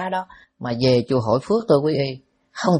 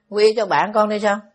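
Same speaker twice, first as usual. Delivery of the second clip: lightly voiced child, a little higher; a hint of a child pleading for a friend; child ghost; 5 semitones higher than usual. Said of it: "ma con nít". (giả nhẹ giọng con nít xin xỏ)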